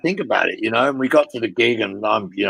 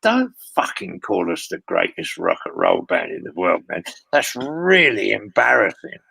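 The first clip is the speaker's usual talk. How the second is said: low, then a hushed unvoiced hiss; a backstage telling-off, dropping to a whisper; Mick scolding; 3 semitones lower than usual. Mick scolds his compère in the dressing room, low then whispered. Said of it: "He says".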